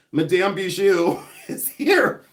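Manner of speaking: put-on slow, drawn-out French accent on the name; mock French accent. Announcing that the lady is here, playful mock French accent. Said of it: "That's my best French accent".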